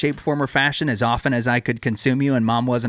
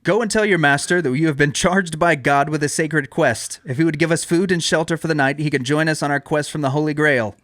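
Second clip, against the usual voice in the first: raised, commanding royal voice; King Arthur; 3 semitones higher than usual. Acted. Arthur orders the guard to tell his master, commanding.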